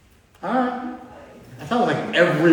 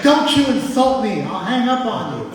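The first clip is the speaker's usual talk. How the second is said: mom offended; 9 semitones higher, 4 dB louder, slower than usual. Retold or imitated. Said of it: "She's like".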